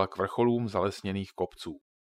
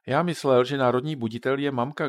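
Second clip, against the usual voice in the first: put-on curious boy; 4 semitones higher, 6 dB louder than usual. A narrator's reading. Boy voiced in a story.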